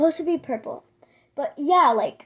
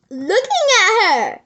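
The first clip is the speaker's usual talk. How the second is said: laughing disbelief; 4 semitones higher, 5 dB louder than usual. Real, not acted.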